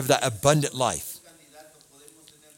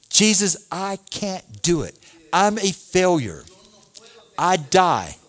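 humble plea; 4 semitones higher, slower than usual. Pretend. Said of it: "I have to come to Jesus by saying".

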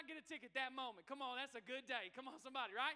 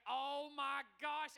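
drawn-out, louder "oh my gosh"; alarmed inner exclamation; 5 dB louder, much slower than usual. Retold or imitated. Pastor telling the congregation of spotting a trooper behind him, mock alarm. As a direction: stretch each word in mock dread.

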